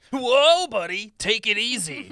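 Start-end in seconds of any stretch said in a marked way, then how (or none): 0.1-0.7 sudden high startled whoa; alarmed whoa. Acted. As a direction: jolt of alarm at the speed. Passenger alarmed at fast driving.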